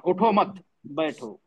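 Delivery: "उठो मत" together, break, then slow "बैठो"; pause after मत. Shown as a demonstration. Teacher repeats the stay-seated reading, pause after मत. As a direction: slowly separate "बैठो" from "उठो मत". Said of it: "हाँ, बैठे रहो".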